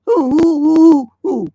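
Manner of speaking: high, loud repeated hoots like an owl; owl-like hooting. Real, not acted. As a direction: hoot the words like an owl by accident. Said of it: "Well, I sound like an owl".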